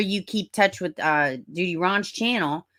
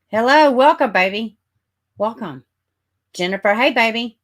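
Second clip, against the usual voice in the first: excited welcome; 7 semitones higher, 9 dB louder than usual. Real, not acted. Welcoming viewers into the stream.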